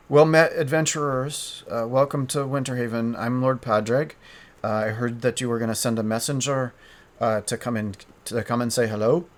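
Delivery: light Irish lilt for a village lord; tentative Irish-accented welcome; attempted Irish accent. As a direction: try a mild Irish accent, greeting newcomers. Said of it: "I'm trying to do an Irish accent".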